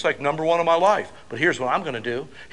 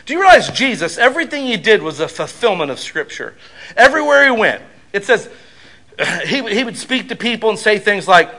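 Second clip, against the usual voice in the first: loud, high preaching; louder and higher, pounding each phrase; preaching at full force; 4 semitones higher, 6 dB louder than usual. Real, not acted. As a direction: drive it home to the congregation. Preaching climax.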